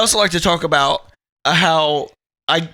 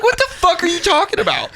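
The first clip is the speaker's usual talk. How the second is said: higher, laughing mock outrage; a retold outburst, higher and laughing; laughing exasperation; 10 semitones higher than usual. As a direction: push it out through laughter.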